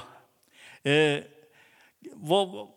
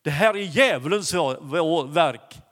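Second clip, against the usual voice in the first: firm declaration; slower than usual. Retold or imitated. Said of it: "röt han till".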